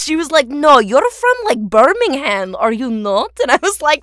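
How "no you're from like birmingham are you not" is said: louder Russian-accented boss, lightly imitated. Boss insists on Birmingham, in a mock Russian accent. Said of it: "who's Russian".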